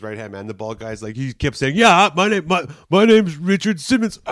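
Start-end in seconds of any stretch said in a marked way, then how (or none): 1.8-4.2 laughing fake name. Bald guy giving fake name, laughing.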